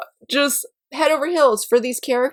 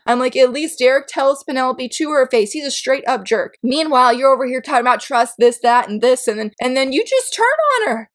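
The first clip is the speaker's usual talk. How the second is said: mock rant. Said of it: "'cause I'm like".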